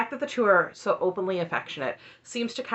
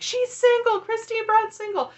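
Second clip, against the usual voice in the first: much higher, louder eager announcement; excited news; 4 dB louder than usual. Retold or imitated. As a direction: burst in with big news. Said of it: "ran into my husband's office and was like".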